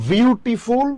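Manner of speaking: বিউটিফুল split into বিউ-টি-ফুল; teacher's careful three-beat বিউটিফুল; careful syllable demo. Shown as a demonstration. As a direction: sound out each syllable of বিউটিফুল. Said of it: "খুব খেয়াল করিয়েন".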